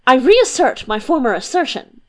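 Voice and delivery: quick, forceful opening; plunging philosopher. Acted. Kopy Keck barging into the debate, quick and forceful. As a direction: plunge straight in. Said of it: "began Kopy Keck with a plunge".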